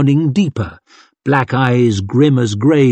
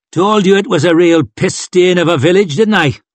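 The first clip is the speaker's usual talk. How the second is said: higher, needling told-you-so voice; complaining character; 6 semitones higher, 3 dB louder than usual. Acted. Gang member ribs the others about the village, higher needling voice. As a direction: crow it, pitched up.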